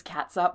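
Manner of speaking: "cats up" with a TS in the middle; ketchup as "cats up". Shown as a demonstration. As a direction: say "cats up" with ts, not ch. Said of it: "anyone that says".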